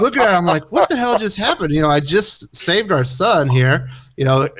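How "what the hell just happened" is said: baffled. Retold or imitated. Dad confused at angry wife.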